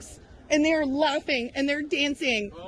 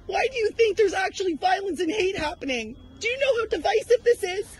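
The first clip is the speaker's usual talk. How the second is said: rising, heated questions, pitch climbing higher; confronting a CBC reporter at the protest, heated and higher; angry confrontation; 5 semitones higher than usual. Real, not acted. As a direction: fire accusations at the reporter, getting more worked up.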